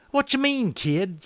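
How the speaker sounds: high, twangy cowboy drawl, slow at first; a brash cowboy boasting about guns; cowboy Boone. A narrator's reading. Narrator gives cowboy Boone a high boastful voice.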